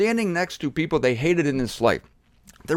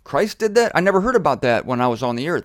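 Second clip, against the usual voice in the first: amazed; 4 dB louder than usual. Acted. Happy people amazed at news.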